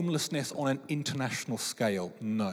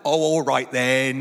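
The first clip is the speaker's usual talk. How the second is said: slow, louder, sighing give-in; mock reluctant giving in; 3 semitones lower, 7 dB louder, slower than usual. Preacher playing Jesus caving to his mum, slow sigh. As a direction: cave in with a long-suffering sigh. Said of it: "And then Jesus is like".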